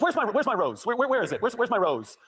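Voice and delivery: imitating the pastor on stage; mock preacher asking. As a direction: call out for the rose like a stage preacher. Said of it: "he goes".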